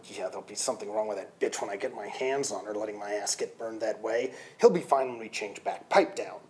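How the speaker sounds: a lightly voiced sulky bull; grumbling Jeff.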